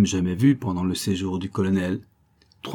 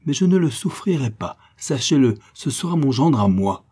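higher-pitched, forceful refusal; indignant defiance; 5 semitones higher, 4 dB louder than usual. Acted. Countess claims her future son-in-law, indignant defiance. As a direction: stand your ground indignantly. Countess defies prince in acted quarrel.

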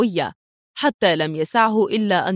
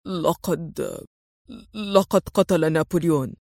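much softer, lower, hesitant stammer; nervous mumble; 4 semitones lower, 4 dB quieter than usual. A narrator's reading. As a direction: confess it, afraid of the boss. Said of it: "مغمغما في اضطراب".

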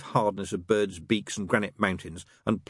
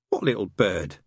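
suspicious; 3 dB louder than usual. Acted. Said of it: "said Aziraphale suspiciously".

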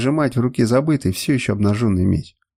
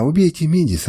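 sobbing plea; 5 semitones higher than usual. Acted. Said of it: "рыдала она".

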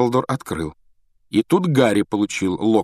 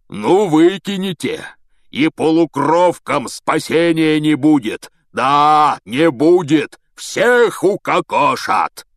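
Hagrid raging; 8 semitones higher, 7 dB louder, slower than usual. A narrator's reading.

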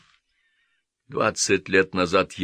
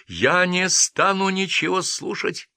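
put-on much higher, slow childish yell; shouting; 11 semitones higher, 4 dB louder, slower than usual. A narrator's reading. The boy shouting at Nikitin, refusing to listen. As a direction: yell it with hands over ears. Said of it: "закричал мальчишка".

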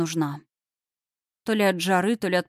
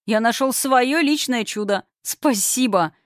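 higher, louder, overjoyed; excited shouting; 5 semitones higher, 4 dB louder than usual. A narrator's reading. Vovka thanks God for the baby, excited shout. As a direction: call it up to the sky. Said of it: "крикнул он".

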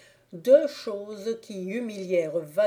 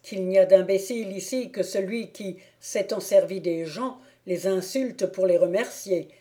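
louder, mild menace; threatening Thibault; 4 dB louder than usual. Acted. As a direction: warn him off.

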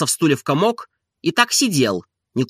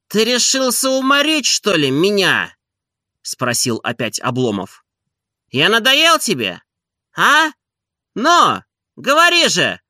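reproachful master; 8 semitones higher than usual. A narrator's reading. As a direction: press him hard for an answer. Master scolding servant.

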